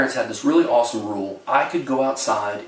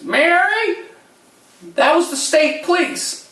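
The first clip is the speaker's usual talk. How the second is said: put-on much higher, louder old-lady cry; alarmed announcement; 6 dB louder than usual. Imitating the aunt telling Mary the police called, alarmed. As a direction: blurt it out to the whole table.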